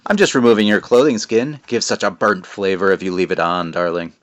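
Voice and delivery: a hint of a soothing, sinister witch; creepy witch voice. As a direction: fake comfort from a witch. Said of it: "Creepy voice, isn't it?".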